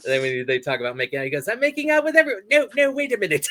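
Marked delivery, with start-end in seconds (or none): 1.5-3.5 much higher, playful; high character voice. Retold or imitated. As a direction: pitch it way up like a cartoon. Retold character lines, very high.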